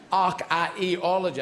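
"Archaeology" slowly spelt out vowel by vowel; every vowel sounded. Shown as a demonstration. Comic puzzling over three vowels, "Archaeology" drawn out vowel by vowel. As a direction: stretch "Archaeology", giving each middle vowel its own beat. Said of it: "got three bloody vowels in the middle".

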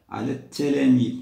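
"التلاميذ" as "ala t-talamidh", no l; silent lam, doubled t. Shown as a demonstration. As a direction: hit a strong doubled t in "التلاميذ". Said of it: "لا نقرأ اللام".

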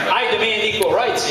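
loud, high yell of demand; high-pitched, forceful storybook yell; protest yell. Acted. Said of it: "yelled the goose".

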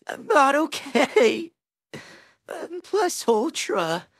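a sudden shock of alarm breaking through; sudden panic. Acted. Hiccuping hero gives up pretending, panicked. Gasp then admits not okay.

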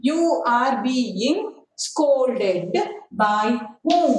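slow, word by word dictation. Shown as a demonstration. Teacher slowly dictating a sentence to children. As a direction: spell out each word slowly for the class. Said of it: "ant change madtidri alva".

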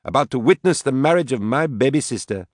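high, showy proclamation; with a flourish. A narrator's reading. Tipsy woman proclaims her sister's wedding, with a flourish. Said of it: "she said with a flourish".

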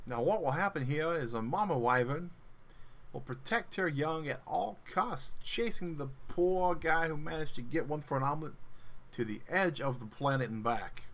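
Steve Irwin narration. Retold or imitated. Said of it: "Cue the Steve Irwin voice".

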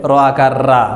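রা with an open aa vowel; Bangla aa reading. Shown as a demonstration. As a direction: say র as রা, the mistaken way. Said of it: "আমাদের উচ্চারণটা করতে হবে".

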